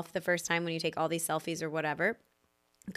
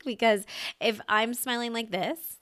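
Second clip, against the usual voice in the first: slight smile; 3 semitones higher than usual. Shown as a demonstration. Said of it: "that barely looks like I'm smiling".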